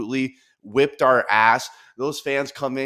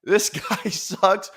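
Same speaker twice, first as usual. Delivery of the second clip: mocking tweet read; 8 semitones higher, 7 dB louder, much slower than usual. Mockingly reads Portnoy's tweet aloud.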